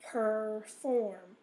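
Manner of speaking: "perform" drawn out, weight on FORM; stress on second syllable. Shown as a demonstration. Teacher showing where the accent is, "perform" stressed on FORM. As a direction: scoop "perform" slowly, landing on the second syllable. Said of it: "the O R is in the second syllable".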